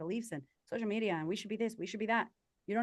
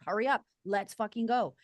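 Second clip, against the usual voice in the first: impatient; 3 semitones higher, 5 dB louder than usual. Retold or imitated. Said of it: "I was also impatient and immature".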